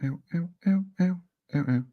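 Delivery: sharp yelps of real pain, high. Real, not acted. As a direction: wince out each ow. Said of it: "got something hurty on my neck".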